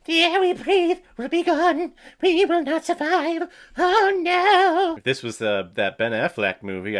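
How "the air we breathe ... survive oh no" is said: very high-pitched parody of a panicked film character; mock melodramatic doom. Host parodying a film character's doom speech, high mock melodrama. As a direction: squeal it out in hammed-up despair.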